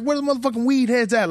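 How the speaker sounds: comic calling out to the crowd, high and fast; hype call-out. Retold or imitated. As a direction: rev up the stoners in the front row. Calling out to the audience.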